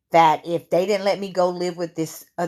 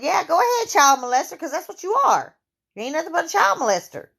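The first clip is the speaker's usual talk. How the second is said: high-pitched shouted taunt, fast at the end; retold furious yell; 11 semitones higher, faster than usual. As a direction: hurl the accusation back at him. Retold yelling at abuser.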